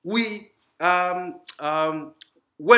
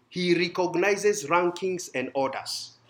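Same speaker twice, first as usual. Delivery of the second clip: slow emphasis; slower than usual. Shown as a demonstration. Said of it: "He does what?".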